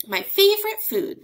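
loud, high hammed-up monster. Gruffalo gloating over the mouse as food. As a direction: gloat over your meal.

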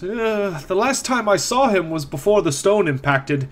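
put-on worried old caretaker reporting news; a hint of a frowning old man; elderly man, frowning.

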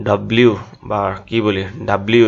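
"ডাব্লিউ" run together as dab-liu; common mispronunciation. Shown as a demonstration. Teacher quoting how we all say it, local pronunciation. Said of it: "উচ্চারণ করি আমরা".

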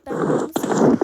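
loud breathy stage whisper. Real, not acted. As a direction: hush it like a secret. Whispering her delight. (fısıldayarak)

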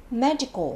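medical with the first syllable stressed. Shown as a demonstration. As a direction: lean on the start of "medical", then let it fall. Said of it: "nhấn vào âm nhất". (nhấn vào âm tiết đầu của "medical")

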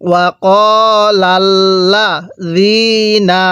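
ওয়াকালাল্লাযীনা very slow, long vowels held; soft-zal recitation. Shown as a demonstration. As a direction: soften the z in ওয়াকালাল্লাযীনা to "dh". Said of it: "জালটা নরম করে".

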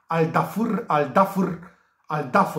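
"Al Dafr" as "al DA-fur", rising at the end; attempted correct pronunciation. Shown as a demonstration. Tipster practises what he thinks is correct, "Dafr" ending on r. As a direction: repeat "Al Dafr" with no final a. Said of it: "cred că e pronunția corectă".

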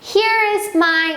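very slow, clear teacher demo; slow model sentence. Shown as a demonstration. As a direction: stretch each word out for the kids. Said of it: "쓸 수 있는 패턴이에요". (아주 천천히 또박또박)

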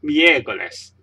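miércoles with the E stressed, then falling; stress on accented E. Shown as a demonstration. Teacher repeating the correct word for learners, miércoles stressed on the E. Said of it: "adjust the syllable with this accent".

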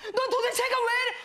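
high mock outburst; imitated yelling boyfriend. Retelling the boyfriend's yelling, high mock shout. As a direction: blow up like the exasperated boyfriend. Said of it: "나한테 다짜고짜 막 소리를 지르는 거야".

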